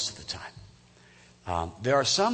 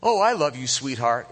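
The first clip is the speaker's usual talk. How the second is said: mock sweet-talk; 4 dB louder than usual. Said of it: "no amount of".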